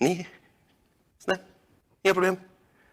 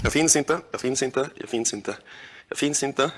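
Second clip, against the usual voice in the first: self-calming mantra; 6 semitones lower than usual. Real, not acted. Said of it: "Gå inom dig, gå bortom dig".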